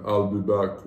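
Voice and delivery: low-pitched movie catchphrase impression; Arnold impression. Shown as a demonstration. Showing the co-host an Arnold impression, low-pitched. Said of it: "I can do his person".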